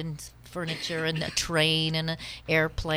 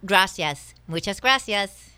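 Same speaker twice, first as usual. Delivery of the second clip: loud, effusive tourist thanks; thanking a porter; 3 semitones higher, 7 dB louder, slower than usual. Acted. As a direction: thank the porter grandly in Spanish. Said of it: "And I say to the porter".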